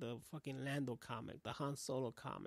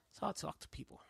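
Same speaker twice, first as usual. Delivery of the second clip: put-on New York voice, pitched up; New York accent; 4 semitones higher, faster than usual. Showing how he talks to people, New York accent. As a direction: talk like a New Yorker. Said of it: "Like that New York accent I did".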